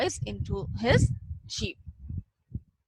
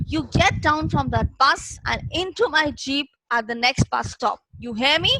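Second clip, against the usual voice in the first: roaring; 3 semitones higher, 4 dB louder than usual. Acted. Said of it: "the voice roared".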